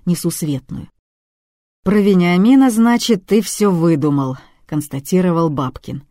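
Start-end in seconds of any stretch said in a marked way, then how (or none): 1.8-4.4 firm loud accusation. Acted. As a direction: call out the lie loudly. Babkin confronts the lying suspect.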